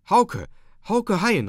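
high, loud, cheerful hail; loud, joyful call. A narrator's reading. Voices from the house summoning Hauke into the night, joyful calling. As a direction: call the name merrily out into the dark. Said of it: "rief es laut und fröhlich".

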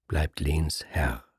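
low, breathy whisper; a hushed, pointed whisper. Acted. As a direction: drop to a cold whisper. Brünnhild coldly asserts rank.

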